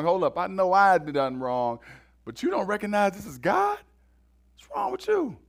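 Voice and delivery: a hint of an indignant thief, pitch jumping up at the end; lightly voiced exasperated rebuke; rebuking criminal. Repentant criminal scolding the other thief, mock indignation.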